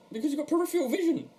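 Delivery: high, giggling voice; barely holding in laughter; giggly. Real, not acted. Giggling over silly question.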